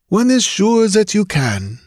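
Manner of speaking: assured French detective voice; confident Frenchman. Acted. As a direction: say it with calm certainty. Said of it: "answered confidently".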